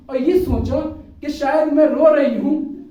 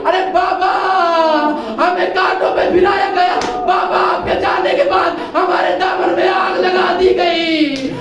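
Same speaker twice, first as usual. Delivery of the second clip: full-force mourning recitation; wailing majlis lament; 3 semitones higher than usual. Acted. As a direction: cry the child's words out to the mourners. Preacher wails the majlis lament.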